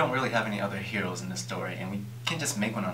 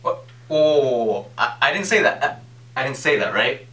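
raised, hurried backpedalling; alarmed loud protest; 6 semitones higher, 9 dB louder than usual. Acted. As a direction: loudly cut him off in a panic. Producer panics at accusation.

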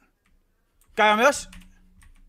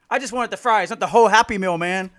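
loud, high-pitched and laughing; laughing protest; 4 semitones higher, 11 dB louder than usual. Real, not acted. Gamer to chat after a whole team showed up, laughing protest. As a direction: complain through helpless laughter.

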